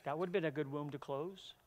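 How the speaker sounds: soft, exasperated aside to God; muttered question to God. Retold or imitated. Pastor voicing his frustration to God, quiet and exasperated. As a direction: shake your head and quietly ask why. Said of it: "I just shake my head and think".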